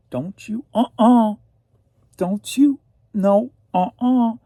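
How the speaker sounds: high, loud sassy uh-uh. Pretend. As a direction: toss it back with sass. Sassy back-and-forth with herself.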